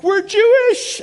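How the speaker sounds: high, loud excited cry; excited friend. Retold or imitated. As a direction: burst in with big news. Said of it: "he was like".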